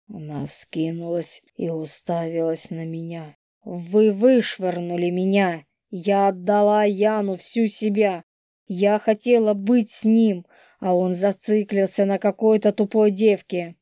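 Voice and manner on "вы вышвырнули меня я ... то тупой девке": put-on higher, louder, furious young woman; hysterical young woman. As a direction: lash out at them all. Polina voiced by narrator.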